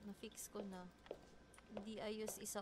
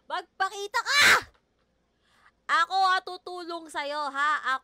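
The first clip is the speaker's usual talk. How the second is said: loud, high call to an unseen ghost; 5 semitones higher, 17 dB louder than usual. Real, not acted. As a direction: shout into the dark for it to show itself. Calling out to the ghost. (malakas na tawag sa multo)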